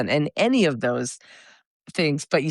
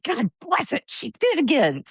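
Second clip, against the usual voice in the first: fond exasperation; 8 semitones higher than usual. Retold or imitated. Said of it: "You're like".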